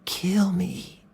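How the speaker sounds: "Kill me." breathed in a voiceless whisper; soft whispered goading; whispered taunt. A narrator's reading. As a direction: whisper the dare close to him. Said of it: "said Doe softly".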